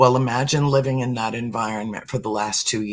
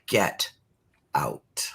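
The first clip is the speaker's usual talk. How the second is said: defiant whisper; 8 semitones lower, 3 dB quieter than usual. Shown as a demonstration. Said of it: "totally defiant".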